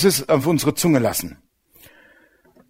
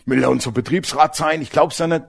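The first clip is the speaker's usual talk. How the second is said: gossiping colleagues; 4 dB quieter than usual. Retold or imitated. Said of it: "dass die sich alle aufgeregt haben".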